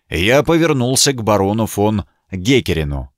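ordinary delivery, nothing marked

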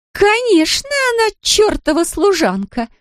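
put-on high, sneering drunk woman; drunken sneer. A narrator's reading. Drunk Larisa mocks Zoya as a servant, high sneer. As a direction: sneer it contemptuously. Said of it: "заявила Лариса".

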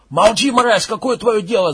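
loud enraged yell; screaming. Acted. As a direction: scream him down. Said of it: "завопил Макс".

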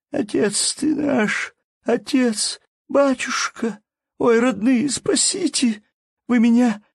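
high wailing lament, voice breaking; keening wail. A narrator's reading. Wife keening over her husband as he is led away, high wailing lament. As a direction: wail it out like a peasant widow's lament.

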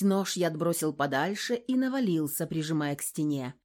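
ordinary talk, nothing marked

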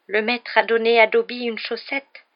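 high, slow elf voice full of wonder; wonderstruck elf. A narrator's reading. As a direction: marvel slowly at an unbelievable gift. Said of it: "dit l'elfe émerveillé".

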